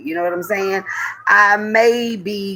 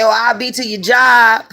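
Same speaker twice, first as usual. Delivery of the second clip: higher, louder threat; mad threat; 4 semitones higher, 4 dB louder than usual. Retold or imitated. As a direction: push it further, hot. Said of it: "'Cause I'm mad".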